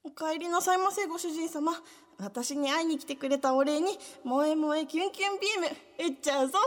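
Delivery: sugary maid cafe greeting. Pretend. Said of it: "最大限の可愛さで読んでください".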